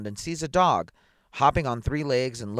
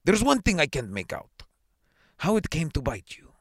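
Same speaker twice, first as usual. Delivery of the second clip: high, raised questioning official; puzzled challenge; 7 semitones higher, 4 dB louder than usual. A narrator's reading. Superintendent doubting the bitten man, high-pitched challenge.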